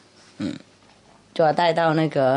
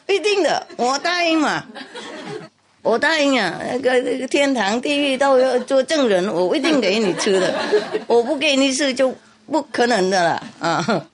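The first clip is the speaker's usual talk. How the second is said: much higher, squeaky eager vow; mouse promising, laughing; 7 semitones higher than usual. Acted. Mouse swears to the cat, high and giggling.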